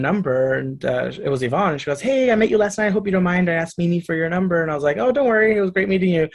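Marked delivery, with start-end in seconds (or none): 2.0-4.6 sweet friendly voice. Retold or imitated. Yvonne voiced texting. 5.0-6.3 excited reply. Retold or imitated.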